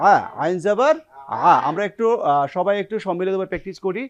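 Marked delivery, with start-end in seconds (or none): 0.1-1.5 আ squeezed from mid-throat, pressed and tight; pressed ain a. Shown as a demonstration. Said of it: "চাপিয়ে হবে আইন জবর". (চাপিয়ে আইনের আ)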